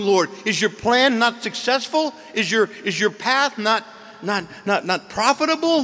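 rising high, loud anguished pleading; desperate plea. Acted. Saint Paul cries out to God over his people, desperate. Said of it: "Saint Paul is in just desperation".

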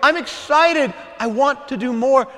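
high-pitched, excited outpouring of devotion; ardent lover. Acted. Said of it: "lovers who say".

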